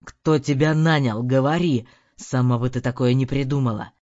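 low, loud demanding yell; furious shout. A narrator's reading. Husband shaking the maid for answers, low loud yell.

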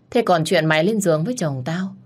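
restrained anger, accusing; bitter accusation. Acted. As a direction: press the charge, seething. Wife accusing the mistress.

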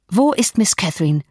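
a hint of sharpness in the question; sharp demand. A narrator's reading. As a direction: cut at him with the question. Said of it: "fragte ich mit aller Schärfe".

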